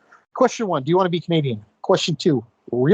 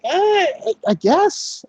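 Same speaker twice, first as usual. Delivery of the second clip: reluctant shrug; 10 semitones higher, much slower than usual. Retold or imitated. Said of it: "I'm like".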